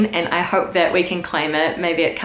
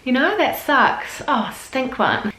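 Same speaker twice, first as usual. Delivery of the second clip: Oh, stink one; 4 semitones higher, much slower than usual. Retold or imitated. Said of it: "being like".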